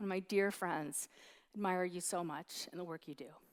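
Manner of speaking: soft, choked-up voice catching with emotion. Speaker calling out to a dear friend in the crowd, getting choked up. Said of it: "I'm getting choked up".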